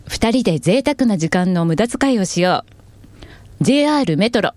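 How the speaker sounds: commercial read. Shown as a demonstration. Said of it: "シーエム番宣シーエムで。".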